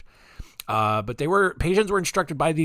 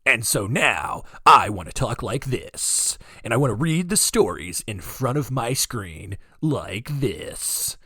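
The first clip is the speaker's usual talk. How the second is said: radio voice. Shown as a demonstration. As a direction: lean into the mic like a late-night DJ. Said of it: "it feels like a radio voice at this point".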